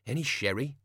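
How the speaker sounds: hopeful little ask. Acted. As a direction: ask hoping for a yes. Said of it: "he added hopefully".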